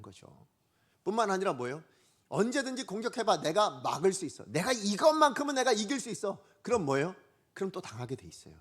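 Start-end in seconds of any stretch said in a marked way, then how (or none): 2.3-6.4 raised-pitch mock bravado; lightly acted challenge to an attacker; cocky dare. Preacher voices a cocky believer, daring bravado.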